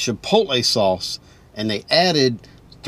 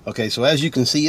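chewing while talking; muffled around food; mouth partly full; faster than usual. Real, not acted. Seen 0: Bites at -4 to -1; lips pursed and chewing early, face then hidden behind the food.

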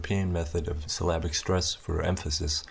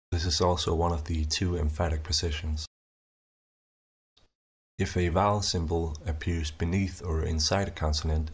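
ordinary talk

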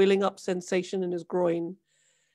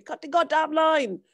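higher, louder demand; angry shout; 7 semitones higher, 4 dB louder than usual. A narrator's reading. Boatman repeating his order to cut the line, angry shout. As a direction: bark the order again, harder. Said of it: "shouted Nysa".

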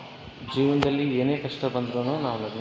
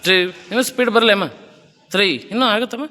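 fitness coach counting. Acted. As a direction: call the reps and push her to keep her hips down. Coach counts plank reps.

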